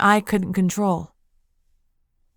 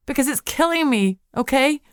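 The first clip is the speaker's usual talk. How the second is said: anguished cry; 7 semitones higher than usual. Acted. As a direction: cry it out in despair. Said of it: "I cried".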